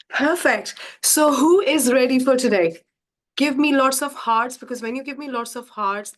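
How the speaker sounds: rally the audience to start; hyped-up welcome. Real, not acted.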